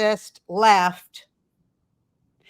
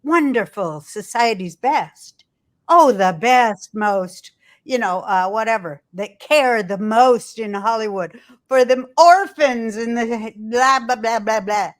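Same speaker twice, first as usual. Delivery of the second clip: sarcastic; 3 dB louder than usual. Real, not acted. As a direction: sneer at society's best. Sarcastic praise of Hollywood elites.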